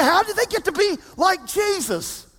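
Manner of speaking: shouted mock question; mock incredulous question. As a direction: call out the doubter's question. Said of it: "You say".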